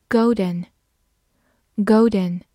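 very slow, drawn-out golden, golden; slow review. Shown as a demonstration. Teacher reviewing vocabulary slowly with students. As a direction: stretch each syllable for learners. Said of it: "复习一下今天学过的单词".

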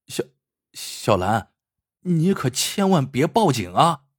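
stammering, a touch of tearful pleading; lightly voiced terrified hostage; trembling with fear. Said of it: "带着哭腔".

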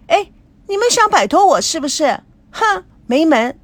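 high, loud whiny near-crying protest; tearful protest. Acted. 美娇跑来带着哭腔抗议被撇下. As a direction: wail it like a kid left out.

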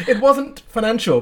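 laughing through the words; giggling while confessing. Real, not acted. Laughs about moving for love.

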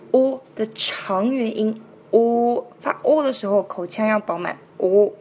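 "O" held long with a full open mouth; long vowel demo. Shown as a demonstration. (长元音“O”，口腔饱满)

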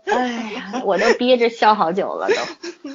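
holding back a laugh; giggling through the words; stifled giggles. Real, not acted.

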